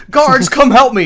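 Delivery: high, loud panicked call, imitated; hammed-up shout for the guards; mock cry for help. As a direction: play a panicking man yelling for rescue. Retold king calling for guards.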